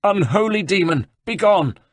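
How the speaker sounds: high, forceful banishing cry; horrified abbot. A narrator's reading. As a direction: drive off a demon at the top of your pitch. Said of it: "He turned his blazing eyes from heaven".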